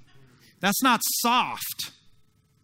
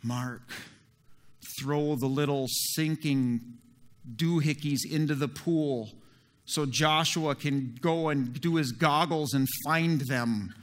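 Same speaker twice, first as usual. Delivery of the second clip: Jesus, gentle; 5 semitones lower than usual. Retold or imitated. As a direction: speak low and patient, guiding Mark. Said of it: "And Jesus is like".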